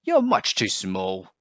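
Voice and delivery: lightly voiced cross cat; snapping cat. A narrator's reading. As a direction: cut the squirrel down curtly. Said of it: "snapped the cat".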